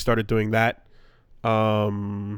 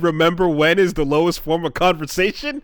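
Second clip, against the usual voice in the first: Tony Soprano quote; 6 semitones higher, 3 dB louder than usual. Retold or imitated. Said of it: "Remember when Tony said".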